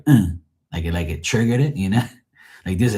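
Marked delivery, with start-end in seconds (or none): 0.1-0.3 short imitated motor grunt; bike noise. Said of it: "you can hear the bike go".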